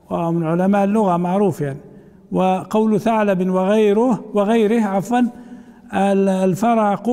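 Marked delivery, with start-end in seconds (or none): 6.3-7.1 الفرق said "al-faraqu", open a after the r; fatha on ra. Shown as a demonstration. Teacher quoting how Arabs say it, الفرق as "al-faraqu". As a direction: give الفرق an extra a: fa-ra-qu. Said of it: "بالفتح في كلام العرب".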